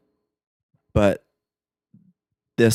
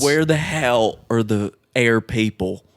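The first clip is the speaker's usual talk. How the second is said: put-on slow, hammy Southern accent; terrible southern accent. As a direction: drawl it in a bad Southern accent. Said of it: "In a southern accent. Terrible southern accent".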